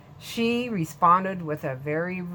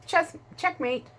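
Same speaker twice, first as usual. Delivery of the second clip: triumphant; 11 semitones higher than usual. Acted. Old lady wins tense chess game.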